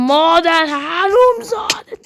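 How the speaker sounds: drawn-out taunting curse; slow mock insult. Real, not acted. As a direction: drag the insult out slowly. Insulting the game creature.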